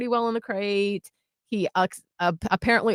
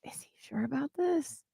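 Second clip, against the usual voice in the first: soft, doubtful aside under the breath; skeptical murmur; 5 semitones higher, 12 dB quieter than usual. Retold or imitated. Doubting her fiance's dinner plan, a soft sceptical aside. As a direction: mutter it like you can't believe his plan. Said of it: "And I was like".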